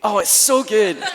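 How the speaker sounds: hammed-up admiring praise; mock gushing praise. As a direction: lay the compliment on thick. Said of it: "master of false humility".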